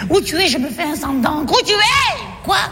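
panicking wife, voice shooting up; frantic worry. Acted. Wife finally reaching her missing husband, frantic rising cry.

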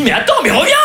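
cri retenu, plus aigu; appel crié imité. Retold or imitated. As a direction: rappeler quelqu'un qui s'enfuit, sans forcer le volume. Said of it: "Alors je lui crie". (faux cri pour la rappeler)

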